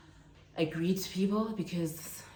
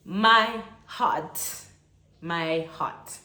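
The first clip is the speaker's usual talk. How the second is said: overwhelmed; 5 dB louder, much slower than usual. Real, not acted. Overwhelmed by coincidence.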